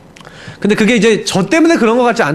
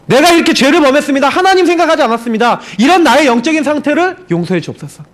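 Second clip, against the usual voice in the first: earnest confession; 7 semitones higher than usual. Retold or imitated. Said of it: "그 고백했어요".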